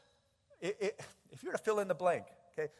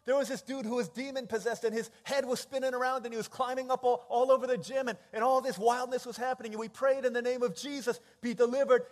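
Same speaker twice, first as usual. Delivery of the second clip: excited, high-energy report, building louder; spiritual high; 4 semitones higher, 5 dB louder than usual. Acted. Disciples reporting wonders to Jesus, on an excited high. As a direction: tumble it out, bursting to go back. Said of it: "Can you imagine the spiritual high that these disciples".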